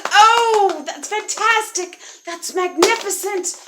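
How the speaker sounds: high, loud princess praise; gushing admiration. Acted. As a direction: gush slowly, relishing each word. Elizabeth applauds the dragon.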